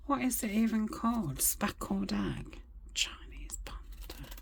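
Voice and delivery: half-whispered, searching for the name; puzzled whisper. Real, not acted. Crafter whispering to herself, trying to recall the paper's name. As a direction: whisper it like you're trying to remember.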